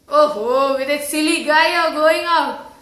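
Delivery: acted mocking jibe with a drawn "Oh"; scornful, mildly loud teasing. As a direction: needle her about her date. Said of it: "teases her boyfriend by saying".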